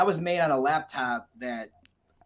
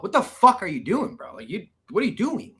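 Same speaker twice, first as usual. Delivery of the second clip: incredulous; 6 semitones higher, 4 dB louder than usual. Retold or imitated. Calling friend in disbelief.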